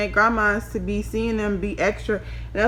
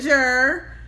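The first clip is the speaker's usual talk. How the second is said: alarmed; 4 semitones higher, slower than usual. Retold or imitated. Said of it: "I said".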